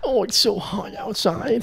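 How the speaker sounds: slow, high mock Jewish accent; hammed-up old Jewish accent, pitched high. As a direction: drag out the complaint in a Jewish accent. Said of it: "She's an old Jewish".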